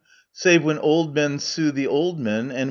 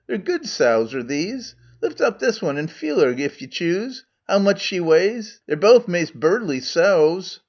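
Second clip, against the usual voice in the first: Scots Megarian; 4 semitones higher than usual. Acted. Megarian role in Scots dialect.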